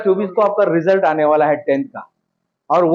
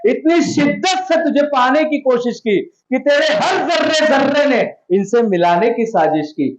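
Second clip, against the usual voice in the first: filmy dialogue delivery; 4 semitones higher than usual. Shown as a demonstration. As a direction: deliver it like a film hero holding the trophy. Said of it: "और यही dialogue बोलना है".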